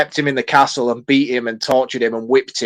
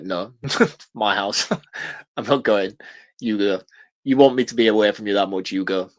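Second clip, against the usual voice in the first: laughing refusal; 3 semitones lower, 3 dB quieter than usual. Retold or imitated.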